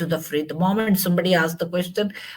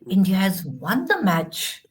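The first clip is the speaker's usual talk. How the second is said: mildly excited announcement, voice going up on the good news; happy news, voice lifted with a touch of excitement. Shown as a demonstration. Teacher shows student how to announce a win, happy excitement. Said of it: "it's happily I'm saying, excitement".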